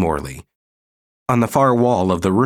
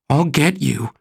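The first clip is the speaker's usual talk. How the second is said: snarled threat; 7 semitones higher than usual. Acted. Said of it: "she snarled".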